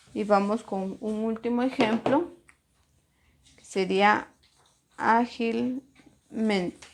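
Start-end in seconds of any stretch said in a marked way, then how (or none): 5.0-6.9 "ágilmente" slowly in two parts, ágil... mente; slow model word. Shown as a demonstration. Teacher introducing the last example "ágilmente", slow and divided.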